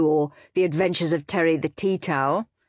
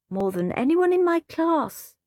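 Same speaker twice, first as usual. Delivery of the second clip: higher, prim show-off voice; boastful little brother; 11 semitones higher than usual. A narrator's reading. Peter boasting to Henry about his class, prim and high. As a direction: brag like the class goody-goody.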